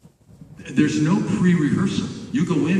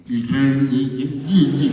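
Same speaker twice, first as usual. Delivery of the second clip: mock stammering. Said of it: "you forget how to speak English".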